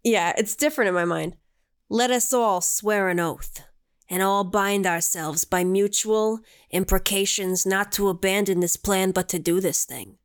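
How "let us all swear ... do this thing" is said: put-on slow, grave Italian American mob accent. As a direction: read it like a mafia don with an Italian American accent. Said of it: "I have to do it in a mob accent".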